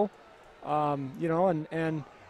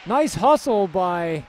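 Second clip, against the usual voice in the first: louder, lifted hockey call; live play-by-play; 3 semitones higher, 3 dB louder than usual. Real, not acted. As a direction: call the breakaway as it unfolds.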